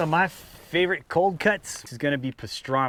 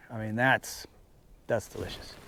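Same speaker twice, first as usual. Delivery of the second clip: talking while chewing; words round a mouthful of meat; mouth full; 4 semitones lower, 6 dB quieter than usual. Real, not acted. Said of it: "Sorry, my mouth full".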